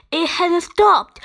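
high, loud exclamation; alarmed shout. A narrator's reading. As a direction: shout it in dismay. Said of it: "shouted Harold".

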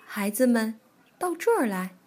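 lightly voiced granny calling; a hint of an old granny; old granny bear. Granny Bear calls the children over, lightly voiced granny.

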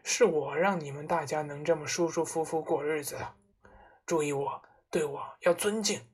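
lightly voiced head of the household demanding respect; self-important father. Father announces himself to the family, self-important.

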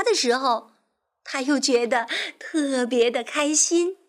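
lively, expressive storytelling; children's story narration. A narrator's reading. Teacher telling of the tired rabbit, expressive narration. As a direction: tell it vividly for little listeners.

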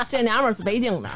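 laughing Beijing slang; beijing accent. Real, not acted. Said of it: "大王是北京的".

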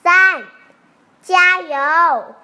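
very loud rallying count; farmer's shout. A narrator's reading. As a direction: belt out the count, urging everyone on. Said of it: "农夫喊道".

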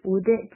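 "would it" run together as one word; "would it" joined without a gap; linked words. Shown as a demonstration. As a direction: link the d of "would" onto "it". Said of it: "would it是连读".

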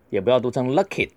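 lucky with an aspirated k, the wrong way; wrong pronunciation. Shown as a demonstration. Teacher showing another wrong way to say lucky. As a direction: say lucky with a puffed k, as not to do it.

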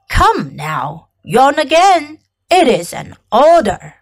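lightly voiced commanding king; a hint of a regal monarch giving orders.

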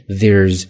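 "There's" with voiced th and an air vowel; air diphthong in there's. Shown as a demonstration. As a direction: bite the tongue on th, then say air. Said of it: "E R E是air这样的".

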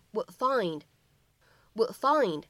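"would find" with the d held, not released; unreleased d linking. Shown as a demonstration. Teacher showing students the linked "would find". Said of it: "我们可以读成".

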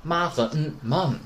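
"man" slowly built from "ma" plus "n"; sounded out. Shown as a demonstration. Teacher spells out Japanese ten thousand, man slowly sounded out. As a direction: split man into ma and n, then join it. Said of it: "读成man".

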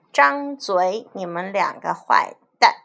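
commanding shout. Acted. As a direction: bark it at the villains. Hero confronts villains.

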